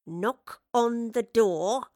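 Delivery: very slow, loud, word by word; drawn-out, impatient command; exasperated order. Acted. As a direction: spell it out to a dim henchman. Quashed a tantrum, orders his thug.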